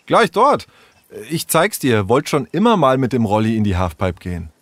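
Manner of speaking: a lightly voiced eager boy; eager Leo. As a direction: show her where it is, keen. Leo eager, Sarah surprised.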